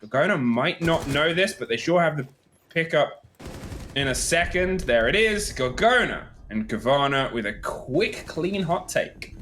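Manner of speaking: lively esports round call; excited play-by-play. Acted. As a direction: call the action as it happens.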